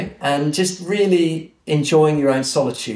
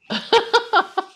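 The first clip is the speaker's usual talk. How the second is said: laugh. Real, not acted. Laughs at genie joke.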